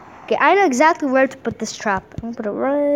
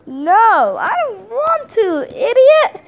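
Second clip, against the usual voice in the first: mock angry retort; 8 semitones higher, 3 dB louder, slower than usual. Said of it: "I'm just gonna say".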